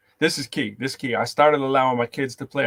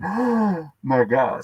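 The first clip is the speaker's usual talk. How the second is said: shocked gasp; 4 semitones higher, much slower than usual. Retold or imitated. Parents shocked in story.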